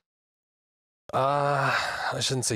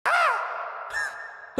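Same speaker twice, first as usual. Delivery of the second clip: loud bird shriek. Retold or imitated. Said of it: "it's not gonna be like".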